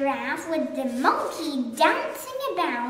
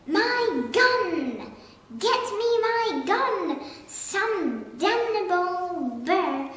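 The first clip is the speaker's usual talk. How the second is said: furious shout; 2 semitones higher, 3 dB louder than usual. Acted. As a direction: roar in outrage at the thief. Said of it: "the Duke was shouting".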